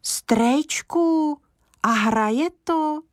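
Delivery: high, breathless hurried ask; can't wait to hear it; boy hurriedly asking grandpa if it plays; eager question. A narrator's reading. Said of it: "honem se ptal Kája".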